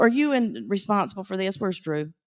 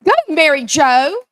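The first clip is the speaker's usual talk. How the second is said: cheering; 4 semitones higher, 11 dB louder than usual. Real, not acted. Cheering a raffle winner.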